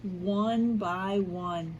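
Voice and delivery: lively read-aloud storytelling with voiced quotes; story narration. A narrator's reading. Teacher reading an Easter story to her class, lively storytelling. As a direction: read it like a picture book to young kids.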